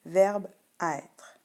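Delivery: "Verbe, être" with the final e unvoiced; silent final E. Shown as a demonstration. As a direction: say "Verbe, être" carefully, dropping each final e. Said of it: "écoute, on n'entend pas le E".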